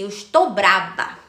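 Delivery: slow, mock-cross declaration; mock cross child. Little girl declares she is cross, mock sulky. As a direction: play a sulking little girl, drawn out. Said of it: "porque eu disse assim".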